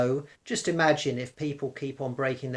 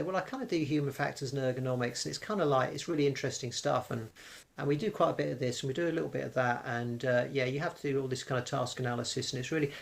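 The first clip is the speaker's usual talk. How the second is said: a touch softer, hurried waffle; rambling interview pitch; 4 dB quieter, faster than usual. Acted. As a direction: imitate a candidate waffling on, running clauses together. Acts out a weak interview pitch.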